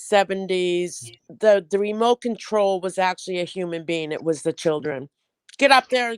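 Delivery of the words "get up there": loud bossy call; parent's order. Retold or imitated. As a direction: bark it like a parent at the kids. Parents ordering kids to change channel.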